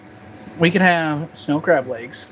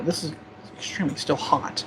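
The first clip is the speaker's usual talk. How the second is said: talking through a hot bite; mouth full; 9 dB quieter than usual. Real, not acted. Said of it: "take a little bit of a bite".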